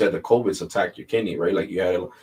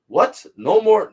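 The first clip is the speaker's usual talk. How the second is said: a sudden high squeak of disbelief; shocked caller; 12 semitones higher, 6 dB louder, slower than usual. Retold or imitated. Caller hearing the American workers are gone, shocked and high. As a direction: jump way up in pitch, caught off guard.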